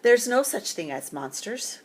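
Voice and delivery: tired Papa Bear crying out to his cub; exasperated cry. Acted. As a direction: cry it out, fed up. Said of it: "cried Bear".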